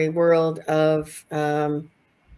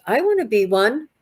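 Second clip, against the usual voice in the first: a lightly voiced pleading pet dragon, higher; mildly childlike plea for affection; a hint of an eager pet begging to belong; dragon wanting love; 5 semitones higher, 5 dB louder than usual. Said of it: "and he's like".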